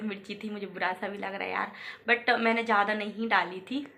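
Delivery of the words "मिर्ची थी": quick, soft repeat of the child's words, lightly imitated; a tender echo of the little girl; sweet child imitation. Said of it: "कितने प्यार से बोला उसने". (बच्ची की प्यारी आवाज़ की हल्की, धीमी नकल)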